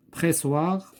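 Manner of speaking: "Pressoir" with a voiceless double S; S prononcé S. Shown as a demonstration. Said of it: "se prononce S". (« Pressoir » avec le son S bien net)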